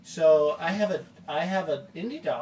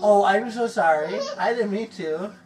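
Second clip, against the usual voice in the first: laughing apology; 7 dB louder than usual. Real, not acted. Apologizing after scaring child.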